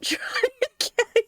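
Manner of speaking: slow, giggling correction; laughing through it. Real, not acted. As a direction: let the laugh break the line. Laughing at Persona joke.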